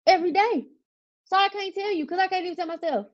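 high-pitched, insistent venting; worked up, rushing into the explanation; exasperated. Real, not acted. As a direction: press the point, voice lifted high. Venting about battling herself.

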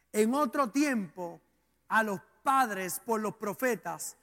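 measured, solemn reading in short phrases; scripture reading. Real, not acted. Preacher reading Hebreos to the congregation, measured scripture reading. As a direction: read the verse out with deliberate pauses.

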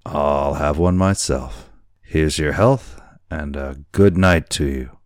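tipsy boatswain with swooping pitch; a touch of boozy swagger; drunken sailor. Acted. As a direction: sign off like a drunk making a toast. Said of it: "how drunken it appeared".

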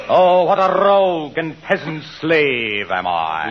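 slow grand stage recitation; Shakespearean actor. Acted. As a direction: declaim it like Hamlet. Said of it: "came out in my tights and said".

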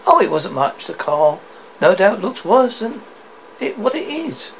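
light, offhand reassurance; playing it down. Husband to wife on the phone, lightly downplaying. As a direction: brush it off casually. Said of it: "Trying hard to play it down".

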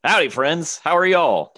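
high, loud folksy Southern greeting; hammed-up Southern howdy. Comedian greeting the podcast audience with a loud, high Southern howdy. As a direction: throw out a big cowboy hello to the crowd.

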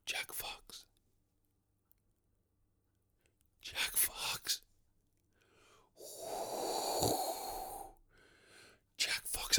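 eerie drawn-out whisper; impression of himself vanishing. Lottery winner haunting his unknowing friends, ghostly whisper. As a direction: whisper your own name like a ghost on the wind. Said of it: "This is my impression of me".

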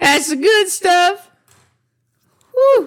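slow, very high hillbilly drawl; redneck accent. Acted. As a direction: savor the moonshine like a backwoods drunk. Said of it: "I combined the accents there".

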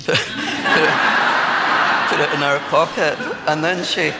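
slow words broken by laughter; laughing while talking. Real, not acted. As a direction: chuckle through the line. Laughing at the lady's story.

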